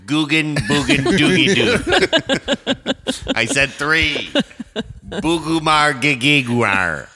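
high, giggly nonsense names; squeaky laughing gibberish names; laughing silly names. Real, not acted. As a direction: babble made-up names through laughter. Goofy name guessing game, laughing.

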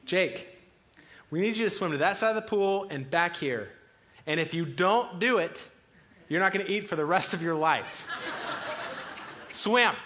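a father laying down the law to his son, half-joking; stern threat. Retold or imitated. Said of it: "Parenting two oh one kicks in".

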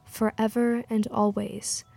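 measured poetry reading, pausing between phrases; poem recital. Acted. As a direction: recite it evenly, line by line. Poem read aloud to music.

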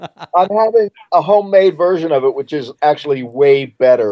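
chewing while talking; mouth full. Real, not acted. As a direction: talk through a mouthful. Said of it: "I'm eating my dinner while I talk".

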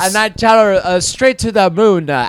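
lightly voiced caricatured Asian accent; a hint of a broad Asian accent. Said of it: "attempt at a white person's accent".

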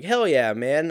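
high, loud bro enthusiasm; bro cheer. Retold or imitated. Runner cheers the drunk kid, loud bro enthusiasm. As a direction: hype it up like a buddy. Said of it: "And I was like".

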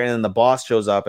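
ordinary talk, nothing marked

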